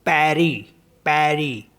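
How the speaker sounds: पैरी with the final S silent; French Paris, final S dropped; French pronunciation. Shown as a demonstration. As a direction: say पैरी ending on the ee, no S. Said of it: "तो इसको पढ़ेंगे नहीं हम".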